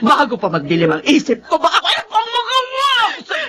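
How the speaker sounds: tearful anger. Acted. Mother drives woman from wake.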